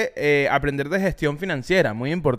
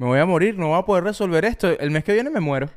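mock despair. Imagining his panicked thoughts about rent, mock doom. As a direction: whine it like the end is near. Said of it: "sentado pensando".

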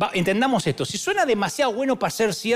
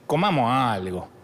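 lightly voiced grumbling Egyptian, a bit low; a hint of a restless worker nagging José; impatient Egyptian; 3 semitones lower than usual. Egyptian worker pushing José to sell the grain, lightly voiced. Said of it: "yo estoy seguro que alguno dijo".

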